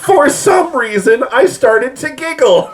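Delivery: high, slow, laughing narration; words bubbling up into laughter; giggling through words. Real, not acted. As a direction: fight the giggles as you read.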